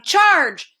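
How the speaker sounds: loud, high rallying cry; battle shout. A narrator's reading. Spelling bee buzzing excitedly overhead, shouting.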